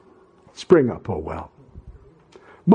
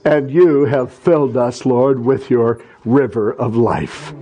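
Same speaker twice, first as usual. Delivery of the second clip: prayer; 3 semitones higher than usual. Acted. Closing prayer.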